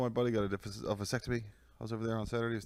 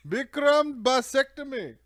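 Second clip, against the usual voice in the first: much higher, louder, slow laughing; gleeful laugh; 12 dB louder, slower than usual. Acted. Friend relishing the doctor's name, laughing. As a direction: savor the name through laughter.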